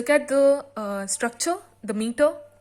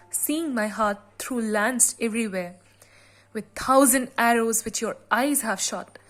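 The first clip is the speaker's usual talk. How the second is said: poem reading. Shown as a demonstration. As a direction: read the sonnet aloud with measured weight. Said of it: "let me read it out for you".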